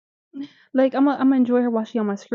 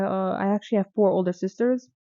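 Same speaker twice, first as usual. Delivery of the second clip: lightly imitated shy soldier, hesitant; hesitant imitation. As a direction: mimic his awkward excuse, a touch sheepish. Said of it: "the way he said".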